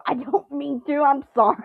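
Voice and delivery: a hammed-up, half-crying sorry; mock apologetic. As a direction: apologise like a flustered kid. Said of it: "And I go".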